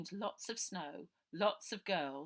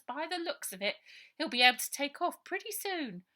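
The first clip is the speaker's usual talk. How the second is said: put-on high, loud pleading girl's voice; girl urging the old sergeant; urgent girl; 7 semitones higher, 7 dB louder than usual. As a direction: press him hard, time is short.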